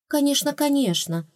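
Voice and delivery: high, bright relieved exclamation; exclaimed. A narrator's reading. Heroine to departing rats, relieved exclamation. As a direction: blurt it out in joyful relief. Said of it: "воскликнула я".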